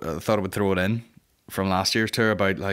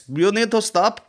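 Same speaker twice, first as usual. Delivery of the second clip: high, slow shouted warning; mock station staff yelling high; 12 semitones higher, 4 dB louder, slower than usual. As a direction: yell it like station staff calling after someone. Staff shouting at fare dodger.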